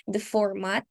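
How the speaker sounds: whispered with a little laugh. Shown as a demonstration. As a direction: breathe the format in a giggly whisper. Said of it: "We can change the format".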